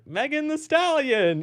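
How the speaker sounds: high, slow, gushing mock name-drop; mock Kamala. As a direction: swoon over the name. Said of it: "Now she's like".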